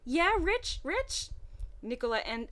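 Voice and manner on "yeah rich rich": higher put-on girl's voice, rising anxious at the end; relieved then suddenly worried; scared girl voice. Nicola calling for her missing twin, growing scared. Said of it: "ended that sentence scared".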